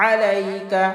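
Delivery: আলাইকা opened with squeezed mid-throat ayn; pressed ayn. Shown as a demonstration. Teacher demonstrates ayn, আলাইকা pressed from mid-throat. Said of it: "গলার মধ্যখান থেকে চাপ দিয়ে".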